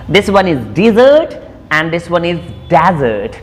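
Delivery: first desert said as dizə˞t, second desert as dæzə˞t; desert both ways. Shown as a demonstration. Teacher contrasting the two desert words. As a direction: contrast di-ZERT then DEZ-ert for desert. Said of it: "difference between the pronunciation".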